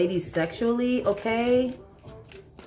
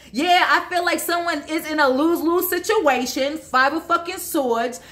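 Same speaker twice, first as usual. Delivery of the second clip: worked up; 4 semitones higher than usual. Real, not acted. Heated, excited reading continues.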